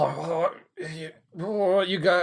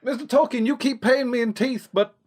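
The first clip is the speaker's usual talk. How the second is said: put-on accidental American accent; 4 semitones higher than usual. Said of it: "I don't know why I've got an American accent".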